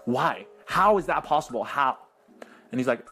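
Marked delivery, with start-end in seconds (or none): 0.1-2.0 mildly mad teacher. Retold or imitated. Confused teacher questions the kid, a bit mad. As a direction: imitate exasperated disbelief, a touch louder. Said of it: "She gets angry".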